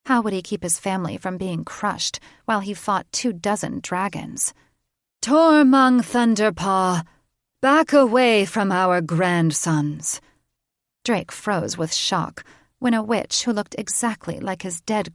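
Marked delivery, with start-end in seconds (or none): 5.2-10.2 commanding call. A narrator's reading. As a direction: stop the king in his tracks. Witch commanding a dragon king.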